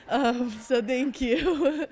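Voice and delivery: slow, tearful thank you; choked up. Real, not acted. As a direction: voice breaking with emotion. Tearful thanks ending award speech.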